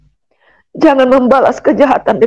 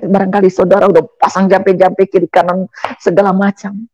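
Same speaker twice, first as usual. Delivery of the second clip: normal talking voice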